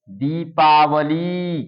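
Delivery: each syllable drawn out slowly; slow, syllable-by-syllable teacher demo; slow blended reading. Shown as a demonstration. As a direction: read it out slowly, sound by sound, for children. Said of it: "अब आप इसको मिलाकर कैसे पढ़ेंगे".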